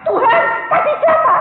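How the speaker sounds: high, urgent shouted question; re-enacted startled cry; retold shout. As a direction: yell it up to God. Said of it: "Saya langsung teriak".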